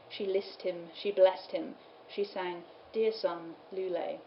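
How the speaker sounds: slow, measured verse with pauses; poem reading. Acted. Lecturer reading Mary's tending of her child, slow poem reading. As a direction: recite it slowly, phrase by phrase. Reads the carol aloud.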